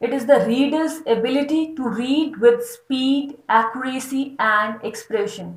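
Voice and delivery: slow, deliberate reading of a definition; slow dictation read. Acted. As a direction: dictate it slowly for notes. Reads text slowly. (धीमे-धीमे परिभाषा पढ़ना)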